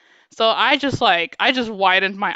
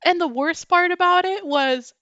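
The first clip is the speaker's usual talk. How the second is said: heated; 4 semitones higher, 3 dB louder than usual. Real, not acted. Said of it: "is making me heated".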